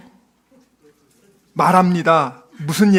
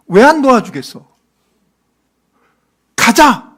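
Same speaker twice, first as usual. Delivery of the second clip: urgent, higher-pitched rallying argument; raised voice of confident urging; Caleb/character; 4 semitones higher than usual. Acted. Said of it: "갈렙처럼 이렇게 얘기합니다".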